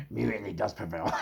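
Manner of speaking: punchline squeezed out through laughter; laughing. Real, not acted. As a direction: barely get the words out before cracking up.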